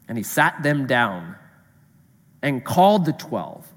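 measured, solemn Bible reading; reading the Gospel to the congregation; scripture reading. Acted. Pastor reads the Gospel passage aloud, measured and solemn.

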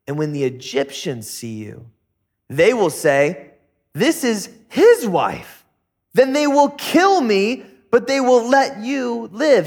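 acted worry, rising to a high, drawn-out warning; worried. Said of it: "He's worried. He says".

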